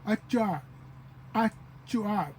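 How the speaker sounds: "Achuak" starting on a bare vowel, a-chu-ak. Shown as a demonstration. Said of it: "just with no H".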